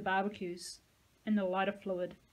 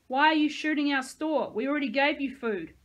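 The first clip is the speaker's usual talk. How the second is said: louder, higher yell; angry yell; 6 semitones higher, 8 dB louder than usual. A narrator's reading. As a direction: demand an answer. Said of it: "I yelled".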